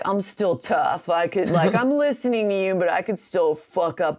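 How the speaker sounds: lightly voiced tough dog muttering; mumbling under breath. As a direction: mutter it like a sulky tough guy. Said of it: "mumbling under her breath".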